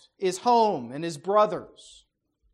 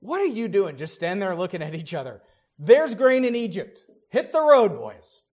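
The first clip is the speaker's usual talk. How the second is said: put-on grumpy old man voice. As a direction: shoo the boys off like a cranky father. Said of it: "grumpy old man voice".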